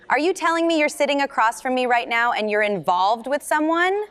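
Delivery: high, laughing disbelief; laughing tease. Acted. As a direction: tease her through a laugh. Aunt teases niece about partner.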